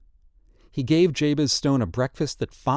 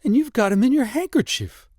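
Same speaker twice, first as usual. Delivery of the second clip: croak; 12 semitones higher, 4 dB louder than usual. A narrator's reading. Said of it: "he said in a croak".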